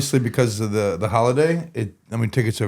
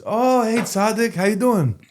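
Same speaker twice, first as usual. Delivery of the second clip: much higher voice for the stranger; imitated greeting; 11 semitones higher, slower than usual. Stranger greets him back in Warsaw, high imitated greeting.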